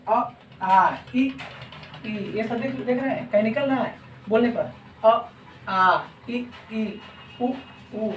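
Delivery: अ आ इ ई उ sounded clearly, air only through the mouth; oral vowel demo. Shown as a demonstration. Teacher demonstrating oral vowels to students. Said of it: "example के तौर पर देख लीजिए".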